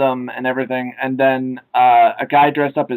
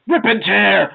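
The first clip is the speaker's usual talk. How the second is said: mock war cry; 5 semitones higher, slower than usual. Quoting the Doom comic's war cry.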